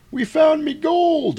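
high, loud, slow gleeful pirate; mock pirate voice. Crew finding gold, hammed-up high pirate glee. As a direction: ham up a greedy pirate.

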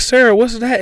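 high mock-curious question; teasing buddy voice. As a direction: poke fun like a cheeky friend. Retold teasing quote from Clarence.

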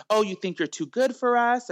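mocking sneer. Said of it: "they just get dirty with them".

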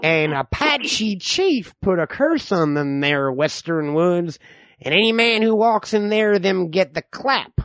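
lightly voiced distrustful old-timer; folksy backwoods codger spinning tales; old man. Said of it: "I'm the old man".

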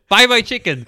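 high, loud mock vendor cry; insistent Vietnamese vendor. Retelling chicken seller hassling men on boat, insistent cry.

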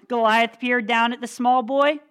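lively read-aloud for a youth group; storyteller voice, building suspense; dramatic storytelling. Acted. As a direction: tell the Bible story with drama. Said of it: "read it kinda dramatically too".

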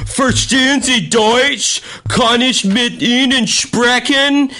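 high, slow, stretched-out bad German; drawn-out, high-pitched obnoxious American speaking German; loud annoying American. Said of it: "loud-ass American being like".

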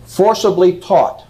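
"Forcibly taught" slowed, with weight on "Forcibly"; slow emphasis. Shown as a demonstration. Lecturer repeating Shaw's words, slow and stressed. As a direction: drag out "Forcibly taught" to drive it home. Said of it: "I put the emphasis on the word taught".

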